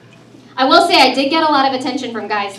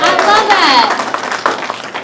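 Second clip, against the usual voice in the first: drawn out; 6 semitones higher, much slower than usual. Real, not acted. Crowd answers, drawn out.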